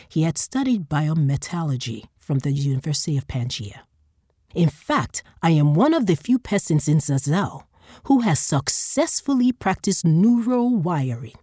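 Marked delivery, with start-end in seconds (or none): 4.5-11.4 lightly voiced bragging salesman, higher; boastful fleshworker. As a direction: show off the credentials.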